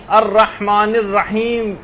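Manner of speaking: slow الرحمن الرحیم ending on a closed, vowelless م; stopped verse ending. Shown as a demonstration. Teacher demonstrates pausing at verse end, measured recitation. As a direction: recite الرحمن الرحیم and stop dead on the final "m". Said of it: "وقفہ دے کر مالک یوم الدین پڑھیں گے".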